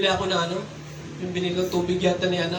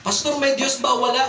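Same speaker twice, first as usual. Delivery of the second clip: higher-pitched shouted question, held back in volume; retold yell, pitched up without full force; mock shouting drunk; 5 semitones higher than usual. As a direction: imitate a drunk man calling out a challenge. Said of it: "pasigaw yun".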